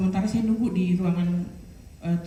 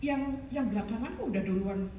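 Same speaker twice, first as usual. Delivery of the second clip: inner thought; 8 dB quieter than usual. Retold or imitated. Sister puzzling to herself in the waiting area, hushed inner thought. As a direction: think it aloud quietly, as if to yourself. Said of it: "Saya kan dalam hati".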